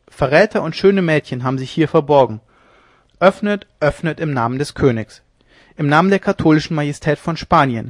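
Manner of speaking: loud, teasing summons; mocking demand. Leone mocking the hidden couple, loud teasing call. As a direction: jeer through the door.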